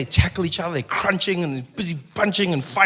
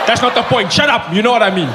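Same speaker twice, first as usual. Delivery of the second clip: annoyed fan; 4 semitones higher, 4 dB louder than usual. Retold or imitated. Angry fan retort.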